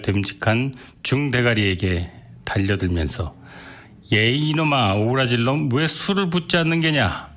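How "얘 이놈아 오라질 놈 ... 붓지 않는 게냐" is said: put-on higher-pitched drunken scolding of the boy. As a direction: tell the boy off hard. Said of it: "이렇게 야단을 쳤다".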